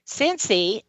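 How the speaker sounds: the name dropped softly in passing; understated, easy mention of a name; calm mention. Retold or imitated. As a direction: say the name calmly, without calling. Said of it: "just in a calm voice".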